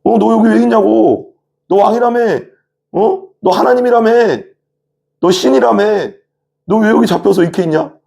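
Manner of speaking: very high, relentless taunting; mocking jeer. Soldiers jeering at Jesus for being caught, mocking. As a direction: pile on derisive questions in a high voice. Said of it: "막 조롱하는 거죠".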